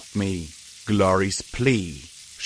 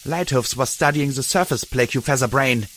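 roaring; 3 semitones higher than usual. Acted. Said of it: "Dusk roared".

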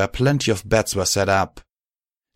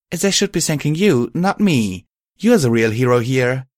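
higher, smiling praise; pleased, mildly lifted voice; 5 semitones higher, 4 dB louder than usual. A narrator's reading. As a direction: hand over the credit with a smile. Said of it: "I said, smiling".

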